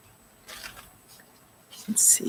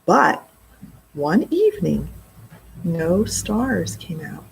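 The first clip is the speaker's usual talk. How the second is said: story narration. A narrator's reading. Reads the storm scene aloud.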